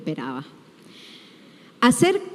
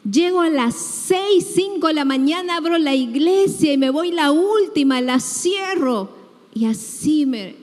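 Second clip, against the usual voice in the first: high, aggrieved complaint to God, higher; pleading reproach; 4 semitones higher than usual. Retold or imitated. Believer reproaching God for unanswered prayer, aggrieved and pleading. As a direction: list your sacrifices, hurt and demanding.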